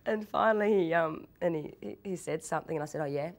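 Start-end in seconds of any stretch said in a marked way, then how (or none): 3.0-3.3 deadpan tough-guy reply; monotone. Retold or imitated. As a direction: answer with no interest, acting tough. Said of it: "I was answering in monotones".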